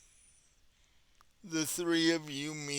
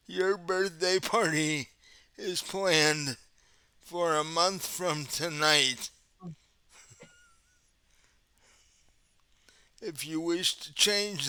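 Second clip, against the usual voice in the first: automated phone voice. Retold or imitated. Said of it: "automated phone voice".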